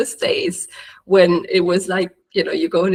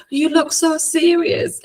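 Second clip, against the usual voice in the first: higher, slow mock-critical voice; inner critic; 9 semitones higher than usual. Scolding herself on camera, in a high, slow, mocking voice. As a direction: drag the words out like a judge. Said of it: "So I'll be like".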